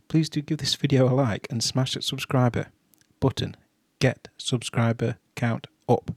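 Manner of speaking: flat, tired robot-like monotone. Real, not acted. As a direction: drone it out like a robot. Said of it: "why I'm talking like a freaking robot".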